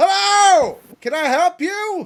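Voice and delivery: high, loud shouting.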